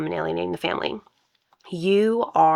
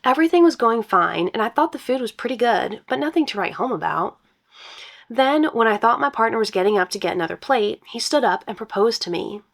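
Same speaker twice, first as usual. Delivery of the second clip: reading a post aloud; story narration; 2 semitones higher than usual. Acted. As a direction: brighter storytelling read.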